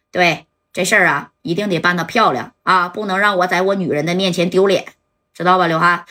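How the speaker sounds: lightly voiced big shot, firm and unhurried; a hint of a patron laying down the job; commanding boss giving orders. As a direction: Zhou ordering Liu Han to settle the matter.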